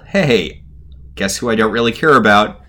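lightly imitated gleeful villain; breezily uncaring, mildly mock-evil; delightfully evil, casual. Podcaster voices a villain dismissing everyone, casually evil. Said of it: "Rumple's delightfully evil in this scene".

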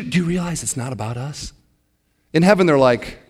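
ordinary delivery

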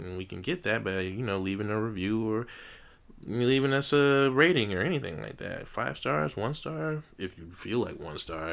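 showman announcer calling the crowd; big circus-host address, fast; ringmaster. Acted. Closing showman outro.

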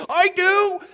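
high, loud eager shout; eager know-it-all. Retold or imitated. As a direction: blurt it like the class know-it-all. Eager know-it-all raising hand.

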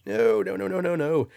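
insistent rising no's; emphatic no. Real, not acted. Emphatic denial of flip-flops.

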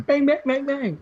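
put-on high, loud kid yelling bang; a child jumping out, shouting; kid's shout. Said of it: "this kid just runs out of nowhere going".

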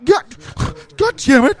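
high, loud imitation of tearful cursing; mock near-tears outburst. Coworker imitating a man over spilled Coke, mock tearful fury. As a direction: burst out as if about to cry, hammed-up. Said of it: "I thought he was gonna cry".

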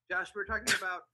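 laughing through the retake. Shown as a demonstration. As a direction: repeat it breaking into laughter. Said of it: "repeats take after glitch".

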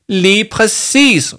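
high, loud, emphatic retort; angry shout. A narrator's reading. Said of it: "råbte Jama". (højt, vredt råb)

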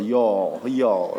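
Texas-drawled "Y'all". Shown as a demonstration. Pastor teaching congregation a Texan word, Texas drawl. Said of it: "with a Texas drawl".

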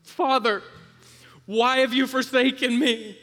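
high, full-force cry of abandonment; anguished scream. Acted. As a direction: scream it out desperately to a father. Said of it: "he cries this, he screams this".

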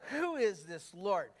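slow, mildly scornful question leaning on "who"; disdainful. Acted. Pharaoh dismissing the Lord, mildly disdainful. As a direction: question him with a touch of disdain. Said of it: "can you see the disdain".

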